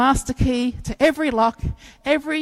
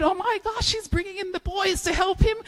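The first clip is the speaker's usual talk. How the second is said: amazed; 10 semitones higher than usual. Pretend. Amazed at the moving truck.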